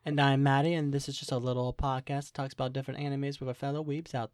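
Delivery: put-on Southern accent. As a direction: introduce yourself with a Southern twang. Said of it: "Why are you talking like that?".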